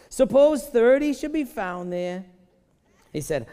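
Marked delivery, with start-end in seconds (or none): 0.1-2.3 put-on high, slow, drawn-out Jewish accent. Preacher voices Abraham haggling with God, hammed-up Jewish accent. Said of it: "I need to get my Jewishness on right now".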